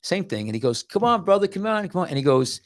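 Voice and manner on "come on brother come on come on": high-pitched, acted welcome; eager beckoning. Second gatekeeper in a retold story invites traveller in, eager beckoning. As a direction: play a gatekeeper urging a brother inside.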